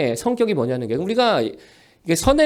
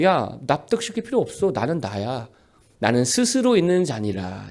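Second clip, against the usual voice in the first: low, soft God dismissing the question; lightly voiced God, calm and final; 7 semitones lower, 5 dB quieter than usual. God answering Moses, low and calm. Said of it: "그러자 하나님이 그러죠".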